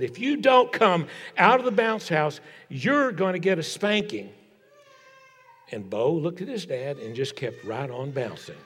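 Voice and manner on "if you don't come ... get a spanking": raised-pitch stern dad's ultimatum. Retold or imitated. Dad orders his son out of the bounce house, stern. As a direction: imitate a father laying down the law, pitched up. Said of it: "getting really stern with him and said".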